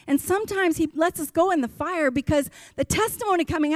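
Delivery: ringing preacher's cadence, building up; preaching at full force. Real, not acted. Pastor preaching to his church, full-force preaching. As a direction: preach it out to the congregation. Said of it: "Sorry, I got to preach in here".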